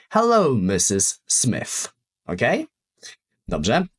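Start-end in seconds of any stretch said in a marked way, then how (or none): 0.1-1.9 slow example. Shown as a demonstration. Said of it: "Więc musi być".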